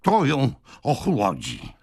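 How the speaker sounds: high, heated order; impetuous yelling. A narrator's reading. Old man orders a bucket over his sister, yelling. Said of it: "wrzasnął impetyczny starzec".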